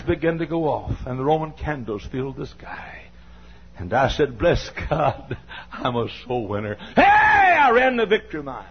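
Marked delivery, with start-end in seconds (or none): 4.4-6.8 laughing joy. Retold or imitated. Retold joy of first convert. 7.0-8.7 high, loud joyful cry; triumphant shout. Real, not acted. Preacher reliving his first convert, triumphant shout.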